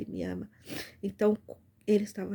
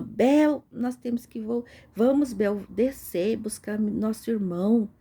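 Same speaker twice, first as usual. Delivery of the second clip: loud urgent plea to come along; sister calling out; 2 semitones higher, 6 dB louder than usual. Retold or imitated. Sister urging Bel to fetch their brother, loud plea. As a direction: call out to Bel, pressing her. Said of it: "E a minha irmã".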